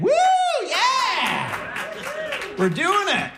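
high whooping yeah; hammed-up celebratory yeah; mock cheer. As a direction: throw a big happy whoop. Cheering moving in together.

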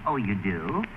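ordinary delivery

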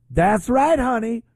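high, mocking imitation of Jasmine Crockett's put-on dialect; mock ghetto dialect. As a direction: ham up a fake street accent, sweet and sassy. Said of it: "We've seen Jasmine Crockett do this".

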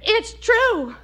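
high, stunned realisation, building; dawning horror. Acted. Wife realising her husband really sold the tickets, horrified.

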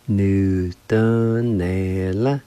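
"Nu, dun, ne, la" with each syllable held long; measured teaching repeat of "Nu, dun, ne, la"; drawn-out pronunciation demo. Shown as a demonstration. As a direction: stretch "Nu, dun, ne, la" evenly, syllable by syllable. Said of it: "It's pronounced like this".

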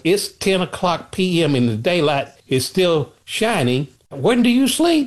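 mock-incredulous, pitch climbing up high on the question; hammed-up amazement that it's still light out; baffled disbelief. Tourist checking his watch at ten, half-mocking disbelief. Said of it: "you're looking at your watch and going".

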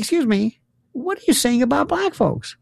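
high-pitched indignant question; indignant challenge. Retold or imitated. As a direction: challenge them in disbelief, voice up high. Acting his indignant challenge.

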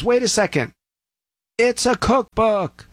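high, slow, stretched-out dawning horror; mock alarmed realization. Latecomer warns the crowd about the book, mock alarm. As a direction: land the punchline like a sudden gasp of realization. Guy's last-minute alarming discovery.

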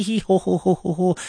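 lightly mimicked followers' giggle "hee hee ho ho"; mock giggle. Host mocking fans giggling, a light mock giggle. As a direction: chuckle it out as mock laughter. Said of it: "laughs and giggles".

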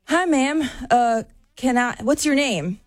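lightly voiced eager stranger asking her name; eager guy. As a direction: play the guy who just ran up. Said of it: "he comes up next to me and he goes".

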